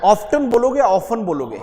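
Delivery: ऑफ्टन with the t, then ऑफन without it. Shown as a demonstration. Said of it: "टी को silent कर दो". (ऑफ्टन टी के साथ, ऑफन बिना टी)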